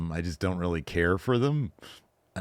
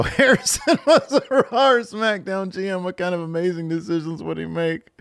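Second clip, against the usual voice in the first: put-on voice; 10 semitones higher, 3 dB louder than usual. Reading a fan question, high put-on voice.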